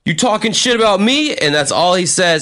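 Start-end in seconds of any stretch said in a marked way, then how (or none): 0.1-1.3 higher, mock-menacing challenge. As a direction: retell the big guy squaring up. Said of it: "he literally just goes".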